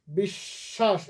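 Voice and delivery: বিশ্বাস said slowly as bishhash, long sh; slow model বিশ্বাস. Shown as a demonstration. Teacher models বিশ্বাস for students, slow and careful. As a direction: stretch বিশ্বাস out for the class. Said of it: "আমি উচ্চারণ করলাম বিশ্বাস".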